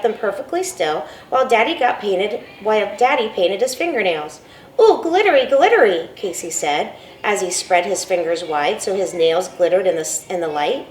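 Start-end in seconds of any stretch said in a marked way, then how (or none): 4.8-6.1 put-on high, loud, thrilled little boy; delighted child. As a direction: coo over the shiny nails like a small kid. Delighted child sees glitter.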